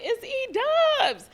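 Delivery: high, loud, slow greeting shout; imitating a friend's loud greeting; Eric calling out. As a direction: hype friend calling her name. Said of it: "he'd be like".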